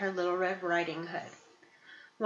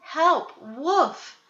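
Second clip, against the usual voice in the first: much higher, louder cries for help; yelling for help; 8 semitones higher, 8 dB louder, much slower than usual. Acted. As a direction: scream out to the woodsman. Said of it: "heard Little Red Riding Hood yelling".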